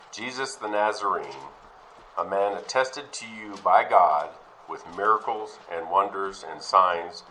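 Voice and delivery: slow, measured reading of scripture. Acted. Preacher reading Peter's Pentecost speech to the church, slow and solemn. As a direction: read Peter's words deliberately, word by word.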